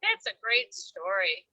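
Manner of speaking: bright, high, warm encouragement; enthusiastic praise. Real, not acted. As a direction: cheer on grandma's storytelling. Praising grandmother's story warmly.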